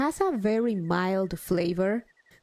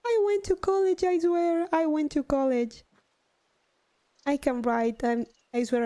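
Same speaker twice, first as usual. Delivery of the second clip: laughing protest; 7 semitones higher than usual. Real, not acted. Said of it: "my bad, my bad".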